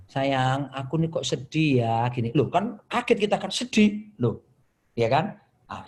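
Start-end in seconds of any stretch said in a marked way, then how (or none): 0.1-2.0 imitating wife's sadness. Wife telling husband how she feels, mild gentle sadness. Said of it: "istri saya suka pakai I statement".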